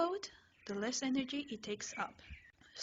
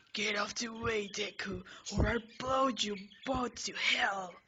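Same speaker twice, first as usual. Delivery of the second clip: mild angry yell; 3 dB louder than usual. Acted. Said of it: "He yells".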